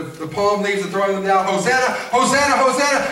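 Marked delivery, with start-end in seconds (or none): 1.5-3.0 lifted, ringing crowd praise; joyful crowd cheer. Acted. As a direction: sing out like a crowd welcoming a king. Crowd welcoming Jesus, acted.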